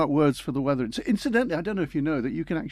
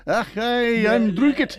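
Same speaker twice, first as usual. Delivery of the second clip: higher hammed-up Scottish accent; a jokey Scottish cry of being soaked; mock Scottish; 8 semitones higher, much slower than usual. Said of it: "Scottish lessons from John".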